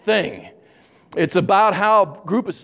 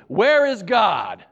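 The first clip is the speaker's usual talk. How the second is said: booming preacher voice; 3 semitones higher, much slower than usual. Retold or imitated. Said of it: "deep, booming voice".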